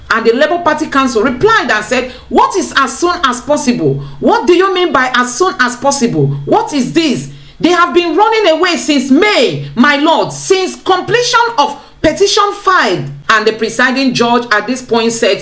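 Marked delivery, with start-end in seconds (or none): 2.3-13.0 indignant protest. Retold or imitated. Labour Party counsel protesting to the judge, rising indignation. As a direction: press the judge with mounting outrage.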